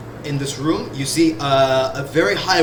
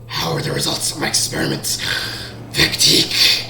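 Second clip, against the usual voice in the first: lower, muffled voice as if through a gas mask; 11 semitones lower than usual. Acted. Masked master asking about his experiment, muffled low voice. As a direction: speak like it's filtered through a mask. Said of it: "a voice coming from a gas mask".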